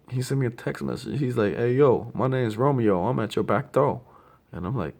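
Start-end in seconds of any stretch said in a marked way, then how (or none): 1.6-4.0 higher, louder, jokey buddy voice; lightly imitating a joking pal; playful friend voice. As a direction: read the text like your goofy friend. Voicing friend's text playfully.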